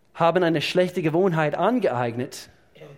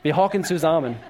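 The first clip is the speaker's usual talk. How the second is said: laughing; 5 dB louder than usual. Real, not acted.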